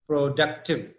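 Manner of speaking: "productive" with stress on DUC; teacher demonstrating the stressed middle of "productive"; stress on second syllable. Shown as a demonstration. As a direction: say "productive" as pro-DUC-tive. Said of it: "the stress is on D U".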